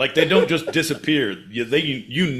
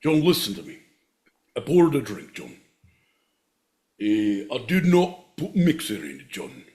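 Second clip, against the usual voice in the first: put-on Scottish accent. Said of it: "Scottish, my boy Pete".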